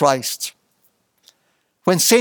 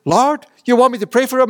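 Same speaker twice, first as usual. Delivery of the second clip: incredulous; 5 semitones higher, faster than usual. Acted. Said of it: "And Ananias says".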